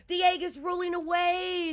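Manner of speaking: high, loud alarmed shriek; storybook bird raising the alarm; shrieking peacock. A narrator's reading. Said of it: "shrieked the peacock".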